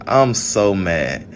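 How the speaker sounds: slow, drawn-out weary complaint; slow resigned venting; exasperated. Real, not acted. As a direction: stretch it, tired of it all.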